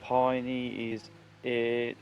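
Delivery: ordinary delivery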